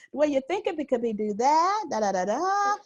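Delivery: drawn-out uptalk, "that" lifting like a question; tentative rising inflection. Shown as a demonstration. Showing women the habit to drop, tentative uptalk on "that" and "da". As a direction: swing "that" and the last "da" upward, unsure and slow. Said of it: "we'll have an inflection at, on our voices".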